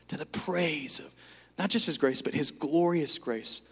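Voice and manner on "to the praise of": whispered awe. Acted. Savouring the phrase.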